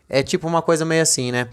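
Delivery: ordinary talk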